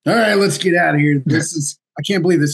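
a mild mock huff of a fed-up father; frustrated dad. Dad fed up after waiting two hours, mild frustration.

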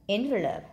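"Envelope" with weight on "En"; first-syllable stress. Shown as a demonstration. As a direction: lean on the start of "Envelope". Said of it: "là nhấn âm một".

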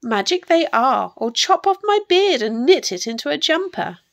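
put-on loud, lively croaking old fellow; croaky little storybook man. A narrator's reading. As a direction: croak out your promise. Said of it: "croaked the little man".

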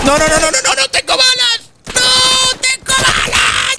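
pánico agudo, gritando que no; panicking gamer. Real, not acted. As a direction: jugador desesperado sin munición. Sin balas, le disparan. (jugador en pánico, voz aguda y alta)

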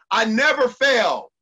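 slow, loud and firm, leaning on NEVER; loud affirmation. Shown as a demonstration. Coach leading listeners in an affirmation, slow and loud. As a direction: declare it like an unshakable vow. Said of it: "say it out loud so I can see it".

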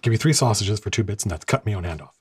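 lightly done Cockney vendor; hint of a Cockney street seller; comedic Cockney accent. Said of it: "speak in a comedic Cockney accent".

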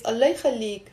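mild demonstrated plea; pleading intonation. Shown as a demonstration. Teacher repeating the intonation for students, mild pleading. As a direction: lightly beg someone for a favour. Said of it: "you see how I did".

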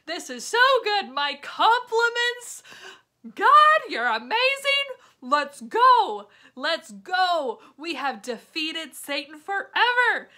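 high, loud, triumphant celebrating; joyful cheer. Pretend. Jesus to God after rising, loud victorious cheer. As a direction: shout it out like a victory cry. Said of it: "almost as a way of saying".

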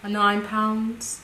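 put-on slow, drawn-out Scandinavian accent; light mock-Scandinavian accent. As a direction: try a Scandinavian accent, slowly. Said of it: "That was a Scandinavian accent".

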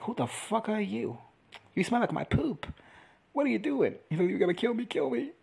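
mock confrontation. Voicing confrontation with the dragon.

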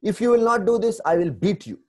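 high, loud threatening mother; mock stern mother yelling at her child; scolding mother. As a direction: threaten the child like an angry mum. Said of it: "जैसे माँ अपने बच्चे को बोलती है".

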